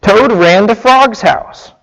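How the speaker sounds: lively storybook reading, pitch rising and falling; story read aloud. A narrator's reading. Preacher reads Frog and Toad story to listeners, animated storytelling.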